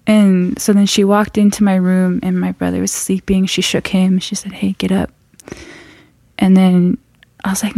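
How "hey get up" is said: whisper. Retold or imitated. Waking brother quietly.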